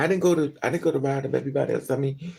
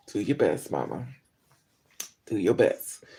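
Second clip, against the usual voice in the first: lower, teasing encouragement; mock encouraging; 7 semitones lower than usual. Teasing an aging girl, mock encouraging. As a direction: cheer her on with irony.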